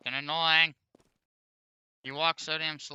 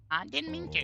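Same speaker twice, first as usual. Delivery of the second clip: high timid voice; 12 semitones higher than usual. Pretend. Voicing timid character line.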